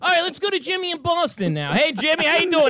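a hint of a sarcastic talk-radio host; mock radio host. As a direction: play a smug host baiting callers. Mock radio host taking Boston calls.

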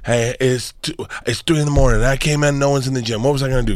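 poor impression of a celebrity video message; lightly voiced movie star talking to camera; Mark Wahlberg. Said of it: "This impression's not good".

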